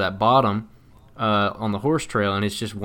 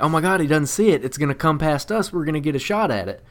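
excited; 5 semitones higher than usual. Retold or imitated. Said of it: "I'm freaking out".

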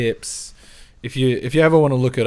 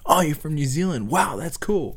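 higher, mock-impressed locals; imitating curious locals; 6 semitones higher than usual. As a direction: play the wide-eyed locals meeting a newcomer. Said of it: "They're gonna be like".

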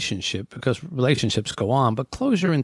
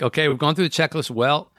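reluctant farewell. Retold or imitated. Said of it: "They always say that word".

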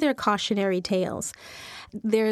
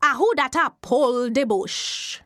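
Jumbie voice; 3 dB louder than usual. Acted. Jumbie spirit calling out to the man pulling bush. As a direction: call out from under the earth. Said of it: "he hear a voice say".

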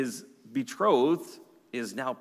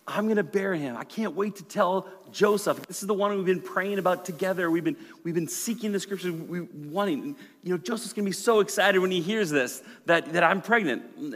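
put-on higher, giddy young bride; excited Mary; 4 semitones higher than usual. Preacher voicing Mary's hopeful thoughts, higher and excited. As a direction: gush like she can't wait to tell him. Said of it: "she's thinking".

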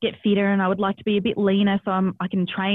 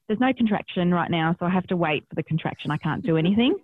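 matter-of-fact calm explanation; calmly. Retold or imitated. Mother calmly telling the paramedic she must wait, calm. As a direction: explain it evenly, unhurried. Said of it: "And I said really calmly".

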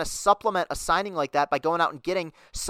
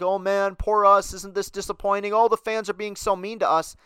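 mock whining; 2 semitones higher than usual. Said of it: "they keep crying poverty and saying".

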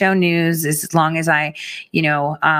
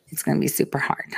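soft, fast whisper of super hard; 7 dB quieter, faster than usual. Shown as a demonstration. Host whispering to viewers about the hard task. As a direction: breathe it like a secret. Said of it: "repeated differently".

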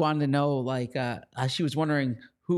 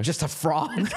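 laughing; 3 semitones higher, slower than usual. Real, not acted. Teasing co-host, laughing.

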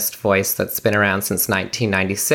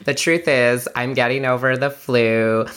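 hoarse voice. Real, not acted. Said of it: "mini course of laryngitis".

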